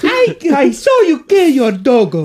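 high, slow put-on creepy voice; sing-song menace, drawn out; eerie high child-like taunt; creepy character voice.

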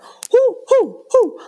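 high, loud whooping cheer; mock cheering. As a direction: whoop it up for the screaming kid. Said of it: "like, just cheering on".

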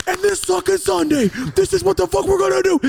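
loud, high-pitched wrestling challenge; wrestler promo. Retold or imitated. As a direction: bellow it like a hyped-up wrestler.

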